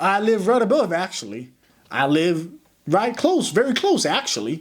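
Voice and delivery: put-on sleep-talking voice with American accent. Speaker retells his own sleep talking from a recording: sleep-talking american accent. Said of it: "I had an American accent in my dreams".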